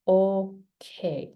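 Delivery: "okay" drawn out on a level, falling tune; statement intonation. Shown as a demonstration. Teacher repeating the example for learners, "okay" as a falling statement. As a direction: stretch "okay" evenly and let it settle. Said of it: "you say".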